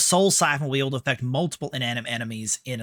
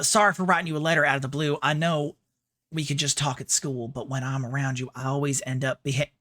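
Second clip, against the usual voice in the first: put-on feminine Southern accent. Streamer reading Rinko's unfinished love letter, feminine Southern accent. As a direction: read it as a shy Southern girl. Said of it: "putting on a bit more of a".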